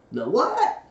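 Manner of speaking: high, loud puzzled question; startled Pooh. A narrator's reading. Dozing bear is asked to explain, startled and loud. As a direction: jolt awake with the question. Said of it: "sitting up suddenly and opening his eyes".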